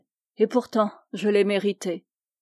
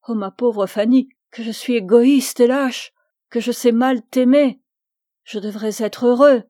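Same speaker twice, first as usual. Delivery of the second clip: louder, pained outburst of guilt; anguished self-reproach; 2 semitones higher, 6 dB louder than usual. Acted. Augustin to Fanny, blaming himself aloud. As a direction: cry out against your own selfishness.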